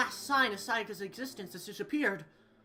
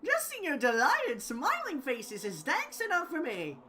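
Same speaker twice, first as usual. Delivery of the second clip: high cackling cartoon bear; gleeful mascot bear; 8 semitones higher than usual. Plays gleeful Monokuma.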